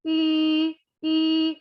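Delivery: "I" said with the lips rounded as for U; a rounded ü, between U and I; ü vowel. Shown as a demonstration. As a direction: say "I" through a U-shaped mouth. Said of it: "kita bacanya nggak boleh U ya, tapi kita bacanya".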